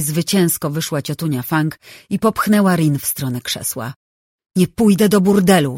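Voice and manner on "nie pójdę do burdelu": głośny, zbuntowany okrzyk; wrzask. Acted. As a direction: wykrzycz to w panice. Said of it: "wrzasnęła dziewczyna". (dziewczyna wrzeszczy na opiekunów)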